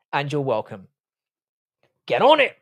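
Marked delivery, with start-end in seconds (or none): 2.1-2.6 raised, higher-pitched shouted order; sudden high, loud command; mock command. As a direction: call it out loudly like an order. Barked order to a viewer.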